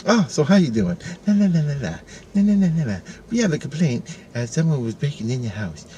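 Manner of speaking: a sing-song cop taunt, high and teasing; mock the cops as they hum la la la. Cops taunting the handcuffed man in his underwear, sing-song mock. Cops mocking him after the takedown.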